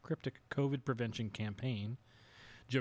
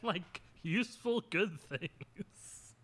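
laughing, voice squeaking up high; sarcastic and cracking up; laughing sarcasm; 8 semitones higher, slower than usual. Real, not acted. Mock praise of technology.

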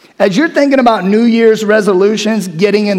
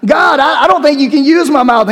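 higher, fast, flustered protest; whining Moses; 6 semitones higher, 4 dB louder, faster than usual. Acted. Moses telling God his mouth is useless, flustered. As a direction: blurt the excuse nervously.

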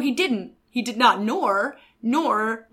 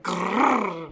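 tiger growl; 3 semitones lower than usual. Retold or imitated. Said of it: "the growl you do".

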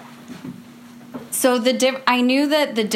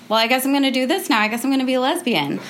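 shrugging; 5 semitones higher, much faster than usual. Retold or imitated. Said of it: "I was just like".

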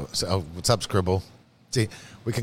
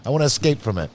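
retold shout; 4 semitones higher than usual. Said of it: "I was like".

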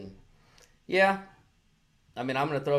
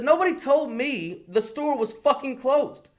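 higher, louder and slow, reliving the fury; retold angry outburst; 10 semitones higher, 4 dB louder, slower than usual. Telling a friend how he snapped at the manager, mock angry. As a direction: spit it out like you're still furious about it. Retelling his argument with the manager.

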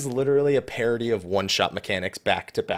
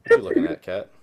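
squeaky high talk to a pet; high voice to cat; 3 dB louder, faster than usual. Real, not acted. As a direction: ask the cat in a high silly voice.

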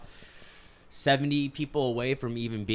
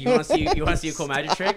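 showman voice; 6 semitones higher, 7 dB louder, much faster than usual. Pretend. Voicing a show-off nostril.

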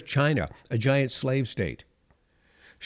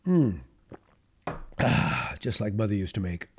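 a contented sip and a sigh over Mother's brew; old radio sign-off; 2 semitones lower than usual. Acted. Host redoing his old radio bit with a satisfied coffee sigh. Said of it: "that's what I would always say".

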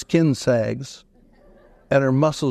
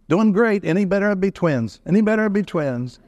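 upbeat bragging answer; 4 semitones higher than usual. Retold or imitated. Upbeat Jerry's stock answer.

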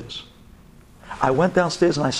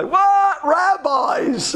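scornful husband; 13 semitones higher, much slower than usual. Retold or imitated. Mocking husband's scornful reaction.

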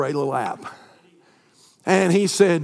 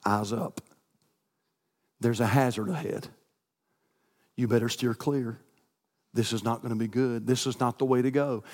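Holy Ghost's voice; 4 semitones lower, 5 dB quieter than usual. Retold or imitated. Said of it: "there is a voice of the Holy Ghost".

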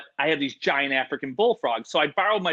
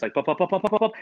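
heartbeat sound; 4 semitones higher, faster than usual. Retold or imitated. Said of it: "I'm having heart palpitations".

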